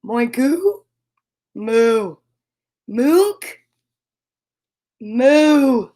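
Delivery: botched rising tries, then drawn-out moos; cow practising moo. Acted. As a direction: alternate questioning misfires with moos. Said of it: "tried again".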